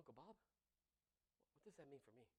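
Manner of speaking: mock hushed question. Preacher mimicking a tactless mourner, hushed and slow. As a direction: ask it hushed and slow to a grieving uncle.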